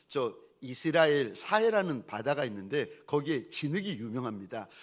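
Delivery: usual speaking voice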